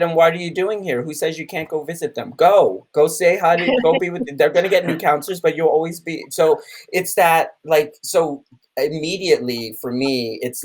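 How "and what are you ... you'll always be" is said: higher, lightly voiced encouraging colleague; Shelley's pep talk. Quoting a colleague urging him to visit, slightly higher. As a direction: nudge him on, a touch higher than your own voice. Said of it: "And then she said".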